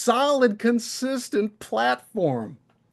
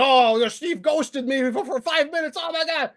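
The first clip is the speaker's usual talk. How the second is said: higher, whiny mock tantrum; mock hissy fit; 4 semitones higher than usual. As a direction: mimic Tom throwing a hissy fit. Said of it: "put a whole hissy fit up and being like".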